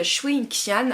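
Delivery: a tea lover trying a Chinese accent on the name, lightly; self-mocking Chinese accent. Shown as a demonstration. Tea vlogger naming a Chinese oolong, in a self-mocking Chinese accent. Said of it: "avec mon superbe accent chinois".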